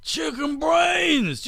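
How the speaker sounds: high, slow, drawn-out hammed-up Australian accent; mock Australian accent. Host quotes a centenarian Australian rancher, in mock Australian accent. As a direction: put on a silly high-pitched Aussie voice. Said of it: "that's how a guy from Australia sounds to me".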